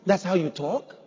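disbelieving echo with a rising end; incredulous question. Acted. Challenging people who excuse their talk, incredulous.

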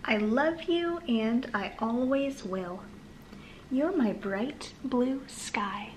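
slow, sing-song picture book reading; reading to children. Acted. Mother reading a board book aloud to her son, slow and sing-song. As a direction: read it gently to a small child.

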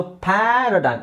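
ಪ್ಯಾರಾಡೈಮ್ with a long, open "æ" in the first syllable; stretched first vowel. Shown as a demonstration. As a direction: draw out the "pæ" of ಪ್ಯಾರಾಡೈಮ್. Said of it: "ಈ symbol ಬಂದ್ರೆ ಆ ಅಂತ ಹೇಳ್ಬೇಕು".

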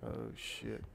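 breathless whisper, hiding; whispered curse. Real, not acted. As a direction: whisper it so he won't hear. Hiding from the killer.

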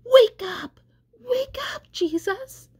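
very high-pitched pleading cry, loud at first. A narrator's reading. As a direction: call out desperately to wake someone.

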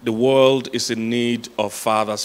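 slow, measured stress on "world", "need" and "fathers"; deliberate preacher's emphasis, drawing out "fathers"; emphatic. Real, not acted. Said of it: "I can't emphasize this enough".

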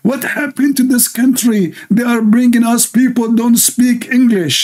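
high mock Texas sergeant complaining; Texas cowboy accent. Texas sergeant complaining about the new recruits. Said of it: "Texas, accent, you know, like, cowboy accent".

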